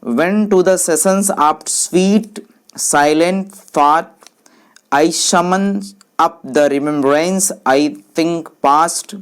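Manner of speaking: slow, deliberate verse recitation; teacher slowly reciting a poem; poem reading. Shown as a demonstration. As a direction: read the verse word by word, with pauses. Reads a verse example aloud.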